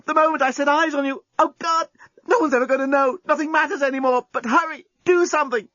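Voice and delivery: Lucy frantic. Acted. Lucy to the journalist with minutes left, high frantic and passionate. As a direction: gush it all out in a panic of passion. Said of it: "yelled Lucy".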